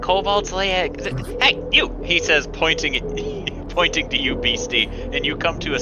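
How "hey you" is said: sharp, high call to stop someone; commanding "hey" pitched well up. Acted. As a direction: halt them with a sudden high shout. Man in yellow calls out to Beastie.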